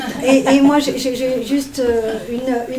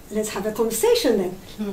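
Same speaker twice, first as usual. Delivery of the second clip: put-on French-accented English. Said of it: "Je dis, ok".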